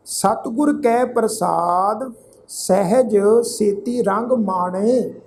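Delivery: slow, measured verse reading with drawn vowels; scripture recitation. Shown as a demonstration. Teacher recites sacred verse to congregation, measured recitation. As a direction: recite phrase by phrase, pausing between.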